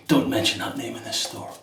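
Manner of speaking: deadpan mock-stern warning, no laugh. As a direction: say it like a playful bouncer. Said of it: "Jokingly, the guy said".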